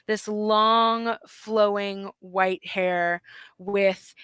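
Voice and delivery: slow, savoured description; game master narration. A narrator's reading. Game master describes the merman to players, slow grand narration. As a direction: stretch the adjectives like a storyteller.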